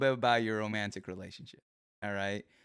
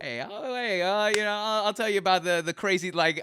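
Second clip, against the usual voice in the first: higher, mock Chicago energy; Chicago accent; 5 semitones higher than usual. Host showing the Chicago energy, playful Chicago accent. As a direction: put on a lively Chicago local. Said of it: "more of an energy than it is an accent".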